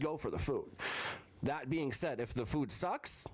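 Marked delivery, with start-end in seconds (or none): 1.4-3.2 mic crackling and breaking up; crackling audio. Real, not acted. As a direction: voice through a crackling, failing mic. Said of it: "your voice is crackling over the".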